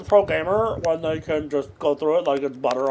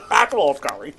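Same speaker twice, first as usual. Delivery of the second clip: laughing; 3 semitones lower than usual. Real, not acted. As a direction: repeat it through laughter. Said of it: "said again laughing".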